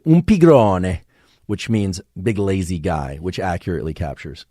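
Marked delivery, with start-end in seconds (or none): 0.0-1.0 Italian words lifted high and louder, falling away; playful Italian sing-song; lilting Italian. Retold or imitated. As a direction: mimic an Italian colleague's teasing lilt. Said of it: "they always say".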